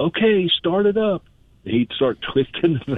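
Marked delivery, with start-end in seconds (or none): 0.1-1.2 mock yell. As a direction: call out slowly like a worker across the field. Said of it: "someone would yell".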